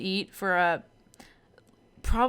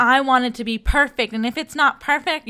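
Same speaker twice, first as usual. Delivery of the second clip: teasing, slightly louder imitation of a demanding bride; mock Bridezilla; 3 semitones higher, 5 dB louder than usual. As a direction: lightly mimic a fussy bride. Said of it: "you sound like Bridezilla".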